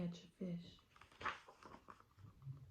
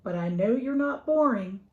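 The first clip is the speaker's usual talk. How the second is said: put-on eager child; 5 semitones higher, 8 dB louder than usual. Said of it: "Sally said to the something".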